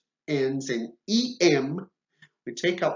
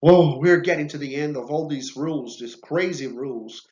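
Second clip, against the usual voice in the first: excited relief; 6 dB louder than usual. Real, not acted. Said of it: "relieved exclamation near end".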